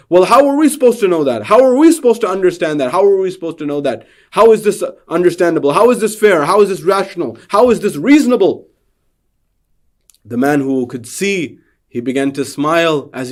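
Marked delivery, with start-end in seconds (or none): 0.1-8.7 louder, higher indignant questions, one after another; shocked protest. Acted. Shocked blind men protesting to the sighted man, indignant. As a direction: protest that it isn't fair. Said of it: "They became shocked".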